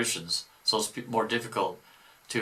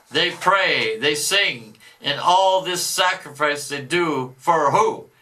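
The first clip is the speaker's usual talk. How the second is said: a boastful devil, louder than the commentary; 5 semitones higher, 4 dB louder, slower than usual. Acted. Devil boasting of stolen souls, mock devil voice. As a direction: read it as the gloating devil. Reader voicing the devil's message.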